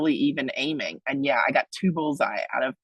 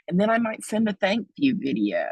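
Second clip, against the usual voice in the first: whisper; 5 semitones higher than usual. Acted. Listing follow-ups after a donation.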